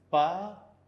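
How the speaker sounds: पासेंट with a long gap, paa, then sent; syllable by syllable. Shown as a demonstration. Teacher writes out the word for patient, पासेंट in two drawn-out parts. Spelling out word while writing.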